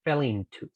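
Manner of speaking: "fell into" run together; linked. Shown as a demonstration. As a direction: join "fell" and "into". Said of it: "lo uno para decir".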